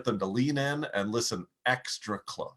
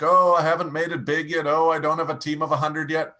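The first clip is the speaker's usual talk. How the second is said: louder, raised mock complaint; mock discouragement; 3 semitones higher, 6 dB louder than usual. Coach imitating a hesitant business beginner, mock discouragement. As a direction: act out a newcomer's loud excuses. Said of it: "don't be like".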